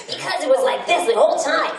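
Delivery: a hint of a strained character voice; painful Skullgirls voice. Shown as a demonstration. Voice actor briefly demos the painful Skullgirls voice. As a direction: lightly show off the voice that hurt. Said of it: "That voice is painful".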